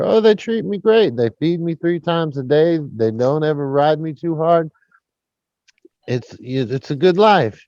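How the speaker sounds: ventriloquist's horse chatting back contentedly; a hint of a joke-teller's horse voice; thrown horse voice. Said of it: "he throws his voice".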